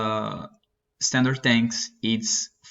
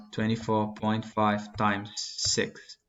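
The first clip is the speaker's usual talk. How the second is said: slow, spaced-out calculation; walk a student through it slowly; slower; 4 dB quieter, slower than usual. Shown as a demonstration. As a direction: take it slowly, one piece at a time. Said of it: "Let me do it slower with you".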